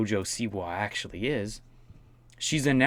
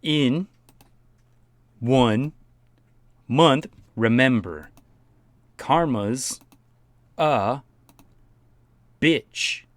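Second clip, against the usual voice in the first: dramatic reading; 3 semitones higher, 5 dB louder, much slower than usual. Pretend. Reading her caption dramatically, slow.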